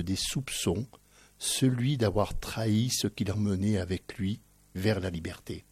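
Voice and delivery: measured, solemn book-blurb read aloud; back-cover reading. Real, not acted. Host reading the book's back cover to listeners, measured reading. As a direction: read it out with deliberate pauses between phrases.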